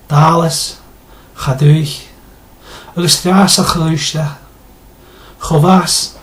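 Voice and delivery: rusty Gaelic, word by word, with some effort; rusty Scottish Gaelic. Shown as a demonstration. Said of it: "it sounds a little like this".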